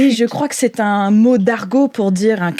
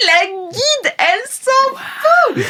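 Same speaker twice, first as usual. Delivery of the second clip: indifferent guide; 12 semitones higher, much slower than usual. Acted.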